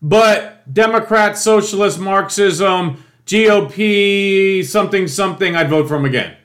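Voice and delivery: mocking Trump voter. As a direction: ham up a supporter rattling off talking points. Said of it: "So they're like".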